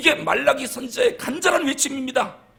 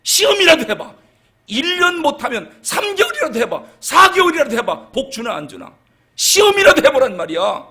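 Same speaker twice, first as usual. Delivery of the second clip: loud exasperated challenge, higher; angry God; 4 semitones higher, 5 dB louder than usual. Acted. God scolding his people to test him, angry and loud. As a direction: push each dare harder and louder. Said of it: "지금 하나님 화가 난 거예요".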